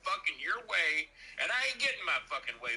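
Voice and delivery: venting fury about the fries; mock outraged rant.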